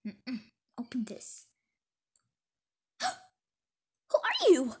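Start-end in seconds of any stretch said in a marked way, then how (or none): 3.0-4.8 drawn-out breathy whisper, very slow; slow frightened whisper. Acted. Girl meeting a stranger at night, slow scared whisper. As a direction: whisper it in fear.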